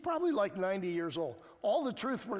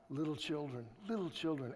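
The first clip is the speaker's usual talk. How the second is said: gently imploring; 2 semitones lower, 4 dB quieter than usual. Acted. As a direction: plead gently, like an aged teacher to his flock. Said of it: "hear this imploring in his voice".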